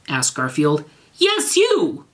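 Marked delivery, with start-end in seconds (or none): 1.2-2.0 high, loud insistent cry; cried out. Acted. Draco insists to Garfield, high loud cry. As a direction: shout it, pointing the blame. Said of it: "cried Draco".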